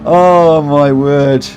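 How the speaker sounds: very slow, drawn-out exclamation; slow amused groan. Real, not acted. Drawn-out amused groan at the chat. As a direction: stretch each word out in amused disbelief.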